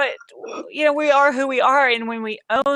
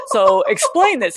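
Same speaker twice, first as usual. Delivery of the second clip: mock stiff, slow demand; slightly louder, measured and businesslike impression; imitating buttoned-up man; 4 dB louder, slower than usual. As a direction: put on a stiff, methodical questioner. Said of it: "he was all buttoned up".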